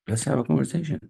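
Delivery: high emphatic echo. Real, not acted. Coach echoing his invite to viewers, pitched high.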